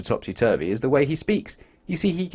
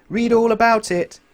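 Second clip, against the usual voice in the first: high, slow, loud street cry; newspaper seller shout; 11 semitones higher, 6 dB louder than usual. A narrator's reading. Newspaper seller crying the right words, high and slow. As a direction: cry it out slowly to passers-by. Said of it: "instead of shouting".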